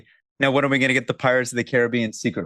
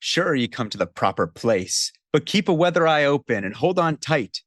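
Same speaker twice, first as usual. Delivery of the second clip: higher, hammed-up old pirate voice; pirate narrator; 5 semitones higher than usual. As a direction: play the ride's pirate host. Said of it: "That's the intro narration to the Pirates of the Caribbean ride".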